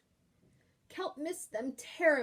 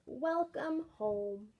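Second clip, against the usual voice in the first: slow welcome; much slower than usual. Acted. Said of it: "And it says".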